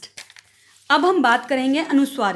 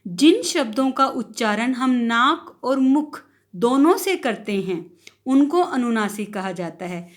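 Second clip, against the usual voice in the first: slow, careful repetition; slow repeat for the class; 2 semitones lower than usual. Shown as a demonstration. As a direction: say it again slowly and clearly. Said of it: "फिर से teacher repeat कर रहे हैं".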